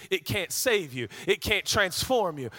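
ordinary talk

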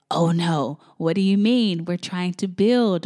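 mock panic. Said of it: "a little bit into panic mode".

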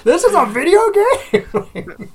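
put-on high, slow, wondering little-kid voice; awestruck child. Toddler son discovering PS5 graphics, slow high amazement. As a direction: marvel at it slowly like a small boy.

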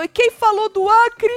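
high, loud, drawn-out indignant question; mock outrage. Retelling Tonzão asking who mentioned Acre, high mock outrage. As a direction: blurt it as an outraged challenge. Same challenge acted again.

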